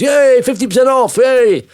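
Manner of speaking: high, loud pretend cheer; mock cheering. Shoppers greet a sale in the shops with a high mock cheer. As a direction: whoop like a delighted bargain hunter.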